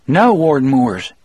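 head him off before he fires; urgent appeal. A narrator's reading. Harry shields Coffey from the armed warden, urgent appeal.

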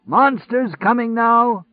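high, slow, hoarse crying out; hoarse crazy shouter. A narrator's reading. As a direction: howl it like a lunatic prophet. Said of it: "the monster shouter called".

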